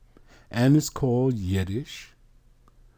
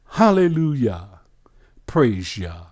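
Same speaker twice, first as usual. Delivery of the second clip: joyful exclamation; 3 dB louder than usual. Real, not acted. Preacher exclaiming praise.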